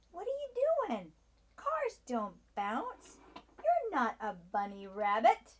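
silly clown. Acted. Scolding a bouncing car.

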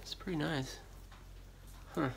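normal talking voice

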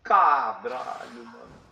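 panicked high cries; yelping in alarm while fleeing; being chased. Real, not acted. Boss hits, panicking in game.

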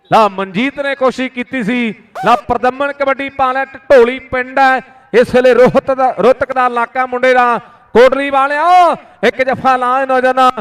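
rapid village kabaddi play-by-play; frantic rural sports commentary. Real, not acted. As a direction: call every raid live to the crowd. Live kabaddi commentary on mic. (ਤੇਜ਼ ਪੇਂਡੂ ਖੇਡ ਕੁਮੈਂਟਰੀ)

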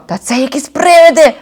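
репетує. Acted. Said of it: "репетував менший".

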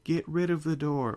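high, loud urgent cry; gasped shout. Acted. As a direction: blurt it out breathlessly urgent. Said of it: "Fluttershy grasped".

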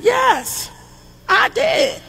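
lightly voiced child, high and unbothered; mock calm kid admission.

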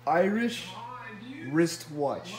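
"Irish wristwatch" in two careful pieces; tongue twister model. Shown as a demonstration. Giving someone the phrase to say, carefully modelled. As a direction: say "Irish", pause, then "wristwatch", each word distinct. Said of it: "I need you to say".

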